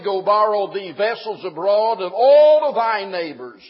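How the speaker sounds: loud scripture reading. Acted. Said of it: "The man of God said".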